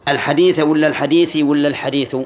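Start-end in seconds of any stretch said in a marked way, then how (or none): 0.1-0.6 الحديث ending in a short "a"; accusative ending. Shown as a demonstration. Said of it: "كيف نقرأه؟". 0.9-1.4 الحديث ending in a short "i"; genitive ending. Shown as a demonstration. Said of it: "كيف نقرأه؟". 1.7-2.2 الحديث ending in a short "u"; nominative ending. Shown as a demonstration. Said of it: "بالرفع؟".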